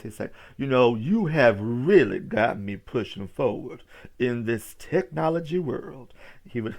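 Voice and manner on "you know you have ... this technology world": louder imitated old preacher; emphatic old pastor impression. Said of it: "he talked like this".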